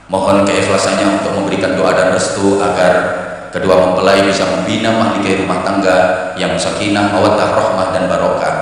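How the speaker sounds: low, soft, measured ceremonial announcing; wedding MC. Acted. MC addresses wedding guests before the couple, formal and low. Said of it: "kemudian M C-nya ngomong".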